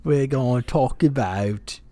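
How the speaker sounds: badly faked Australian accent; failed accent attempt. Co-host retries the show intro, badly faked Australian accent. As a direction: try the Australian accent again, haltingly. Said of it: "I can't do this accent at all".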